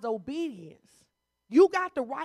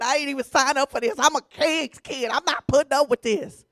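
mock indignant whine; 7 dB louder than usual. Mocking a complaining churchgoer.

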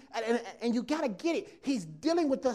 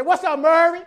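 excited greeting; 5 semitones higher, 10 dB louder than usual. Retold or imitated. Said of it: "They say".

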